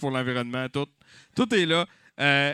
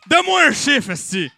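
crié en riant; 9 semitones higher, 6 dB louder than usual. Real, not acted. Encanteur lance les enchères en riant.

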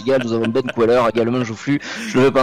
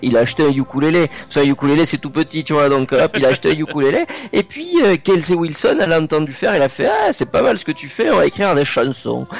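put-on lively tale in a southern French accent; faster than usual. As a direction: tell it like a southern French speaker, sing-song. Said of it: "je prends l'accent du Sud".

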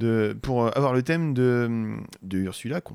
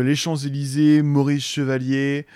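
mock-grand French clichés; 5 dB louder than usual. Musician listing gros clichés sur les Français, mock-grand.

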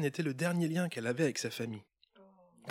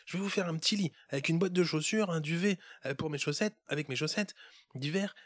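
put-on higher, urgent child's voice; a kid hushing someone anxiously; hushing little boy; 5 semitones higher than usual. Boy hushing the elf so mother won't hear, high urgent.

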